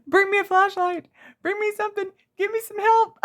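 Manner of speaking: very high, loud yelling for help; retold frantic hollering. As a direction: scream across the yard for a flashlight. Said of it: "I'm hollering at my exchange student".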